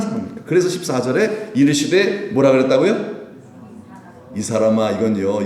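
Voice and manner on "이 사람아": measured, slightly lower reproach; restrained, dignified scolding; genteel reproof. Retold or imitated. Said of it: "예수님이 점잖게 말씀하신 거예요". (점잖게 나무라는 말투)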